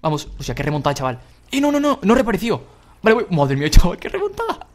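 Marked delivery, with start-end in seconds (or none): 1.5-4.7 loud, high, thrilled shouting; excited shout. Real, not acted. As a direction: yell out the comeback. Big comeback in race.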